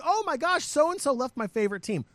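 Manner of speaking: high-pitched mock fan panic; mock freak-out. Host mimics fans upset over players leaving, mock freak-out. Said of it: "everyone's freaking out going".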